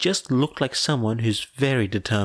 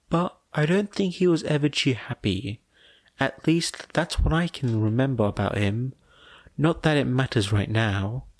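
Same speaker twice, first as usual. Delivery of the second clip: slightly higher, gentle sister voice; lightly voiced older sister; 4 semitones higher than usual. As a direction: sister recalling her late brother. Fumi voiced, higher than narration.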